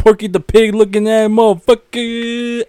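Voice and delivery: loud, rapid-fire mocking insults; hammed-up yelling roast. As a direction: tear into your friend for laughs. Roasting a friend's question.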